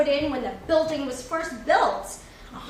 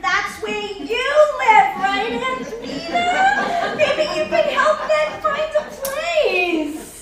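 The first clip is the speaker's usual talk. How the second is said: higher, louder, slow, laughing through it; teasing laughter; 9 semitones higher, 8 dB louder, slower than usual. Acted. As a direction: tease her, barely holding the laugh in. Teasing matchmaking in elevator.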